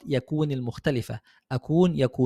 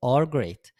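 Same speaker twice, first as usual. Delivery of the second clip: slow model sentence; 3 semitones lower, much slower than usual. Shown as a demonstration. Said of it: "هنقولها إزاي؟".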